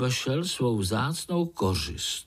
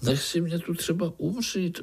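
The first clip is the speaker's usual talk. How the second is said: defiant; 7 semitones higher than usual. Acted. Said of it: "odpověděla Zlatuška vzdorovitě".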